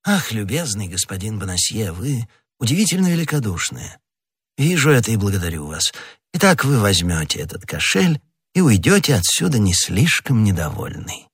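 a great lord lightly flattering his inferior; учтивый кардинал. Acted. Figure of the cardinal. (сдержанно-любезный голос вельможи)

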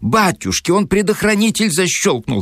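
very high, startled female exclamation; acted shriek at ordinary volume; alarmed cry. A narrator's reading. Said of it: "вскричала Зина".

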